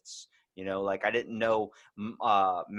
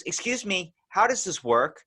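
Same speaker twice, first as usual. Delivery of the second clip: helpless woman; 10 semitones higher, 4 dB louder than usual. Retold or imitated. Imitating woman at gas pump.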